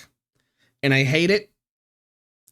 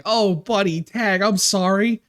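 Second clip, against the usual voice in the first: higher, drawn-out imitation of pitying coworkers; slow, pitched-up condolence; retold sympathy; 6 semitones higher than usual. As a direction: voice a sorry, consoling friend.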